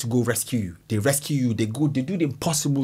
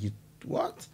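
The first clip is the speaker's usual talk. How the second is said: menacing lion; 4 semitones lower, 9 dB quieter than usual. Pretend. Lion confronting whoever touched cubs.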